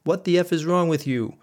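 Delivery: husband yelling at his wife at night, angry shout; retold shout. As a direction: shout at her like a raving lunatic. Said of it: "I shouted like a raving lunatic".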